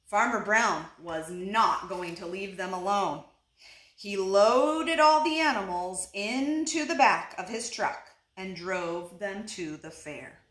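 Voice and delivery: animated picture-book read-aloud; unhurried storybook telling; story narration. A narrator's reading. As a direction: read to little children, stressing key words.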